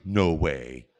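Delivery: mild chuckled no way; quoting a friend's laughing surprise; laughing disbelief. Retold or imitated. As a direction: say it through a small laugh. Old friend recognizes him, laughing.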